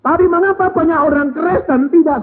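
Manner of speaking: high, loud and fast rhetorical questions; fiery preaching. Acted. Preacher questions the congregation, loud and high. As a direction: press the crowd with each question.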